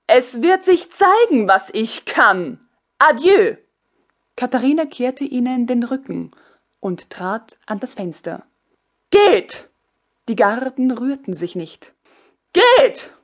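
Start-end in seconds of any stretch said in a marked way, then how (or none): 0.1-3.6 proud empress. Acted. Empress answers the officer. 9.1-9.7 high, loud barked order; commanding shout. Acted. Empress ordering the guards out, loud high shout. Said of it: "herrschte sie ihnen zu". 12.5-13.1 high, loud barked order; commanding shout. Acted. Empress ordering the guards out, loud high shout. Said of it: "herrschte sie ihnen zu".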